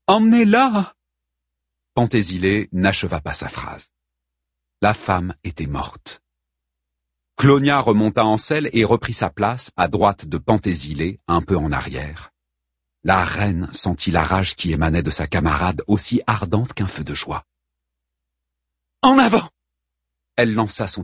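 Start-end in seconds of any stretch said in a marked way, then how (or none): 0.1-0.9 high, loud command; urgent order. A narrator's reading. Queen orders the wounded woman taken away, urgent order. 19.0-19.5 high, loud charge order; battle command. A narrator's reading. Queen launches her Amazons into a gallop, battle cry.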